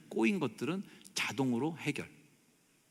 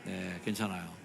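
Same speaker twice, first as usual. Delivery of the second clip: mildly soothing, drawn-out comfort; gentle reassurance; 4 semitones lower than usual. Shown as a demonstration. Preacher leading congregation in comforting a neighbour, gentle reassurance. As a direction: reassure them kindly. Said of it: "자, 시작".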